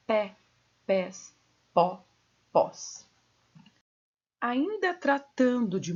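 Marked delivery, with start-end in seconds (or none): 0.1-3.1 "pé, pés, pó, pós" spaced, with open E and O; open timbre. Shown as a demonstration. Teacher lists monosyllable examples, open timbre. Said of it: "se for com timbre aberto".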